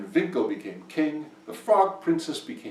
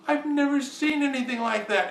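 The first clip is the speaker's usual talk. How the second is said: high-pitched, put-on wizard voice; astonished wizard; 14 semitones higher than usual. A narrator's reading. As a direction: squeal it in amazement. Wizard's amazed reaction in story.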